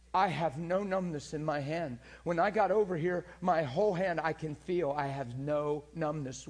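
amazed and emotional. Retold or imitated. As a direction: announce it in loud disbelief. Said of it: "really emotional".

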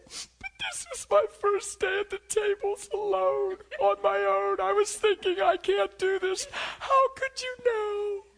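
very high, slow, loud imitated crying woman; tearful waitress. Preacher voicing the stunned waitress in a very high, tearful voice. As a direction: squeal it out as the overwhelmed girl. Waitress explaining through tears.

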